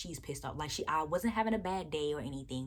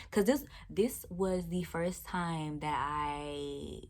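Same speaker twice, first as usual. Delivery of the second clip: tearful; much slower than usual. Real, not acted. Upset after first rude customer.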